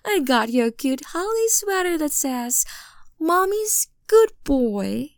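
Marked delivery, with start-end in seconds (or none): 3.2-5.1 excited reading. Acted.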